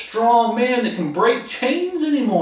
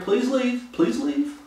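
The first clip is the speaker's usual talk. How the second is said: mock pleading townsfolk; 5 semitones higher, 3 dB quieter, slower than usual. Townspeople begging Jesus go.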